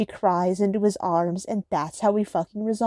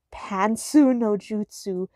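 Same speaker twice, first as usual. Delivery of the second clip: mock anime attack call; slower than usual. Mock anime jutsu calls.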